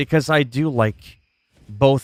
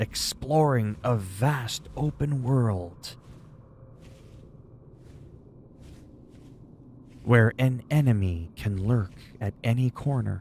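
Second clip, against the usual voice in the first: slow, hushed epic movie trailer narrator voice; 5 dB quieter than usual. Mid-explanation, briefly trying to sound like the movie trailer guy. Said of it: "trying to sound like the movie trailer guy".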